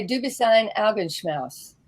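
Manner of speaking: German phrase in a Southern US accent. Shown as a demonstration. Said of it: "that's with my Southern accent".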